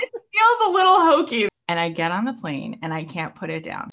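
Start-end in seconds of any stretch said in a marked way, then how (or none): 0.0-1.5 much higher and louder, laughing through it; laughing aside. Retold or imitated. Telling the host her first doubt, laughing. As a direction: blurt it out with a laugh, half-embarrassed. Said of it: "I'm like".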